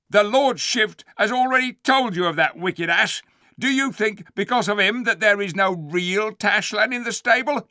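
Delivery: high, loud, commanding threat; menacing Calormene captain. Acted. Tarkan threatening the Narnians, loud commanding voice. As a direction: bear down on them like a warlord.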